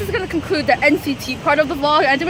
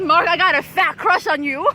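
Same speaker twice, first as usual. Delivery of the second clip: mock fan yell; 5 semitones higher, 6 dB louder than usual. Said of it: "I was screaming my lungs off".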